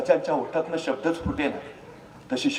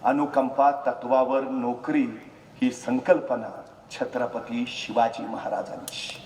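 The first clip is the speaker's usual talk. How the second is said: ordinary talk, nothing marked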